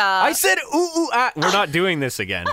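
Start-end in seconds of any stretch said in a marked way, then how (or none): 0.7-1.3 high, hooting mock monkey call; monkey impression. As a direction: hoot it out like a playful monkey. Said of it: "your monkey impression".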